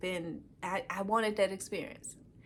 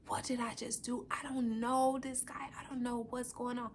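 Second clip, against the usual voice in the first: higher, softer, mildly bewildered retelling; bewildered self-questioning; 4 semitones higher, 4 dB quieter than usual. Retold or imitated. Woman pacing after saying yes, mildly bewildered. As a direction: ask yourself in hushed, higher-pitched disbelief.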